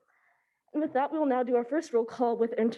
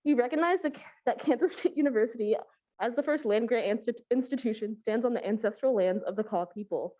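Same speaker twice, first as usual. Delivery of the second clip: breathless, catching her breath. Real, not acted. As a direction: speak while still winded. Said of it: "I'm so out of breath".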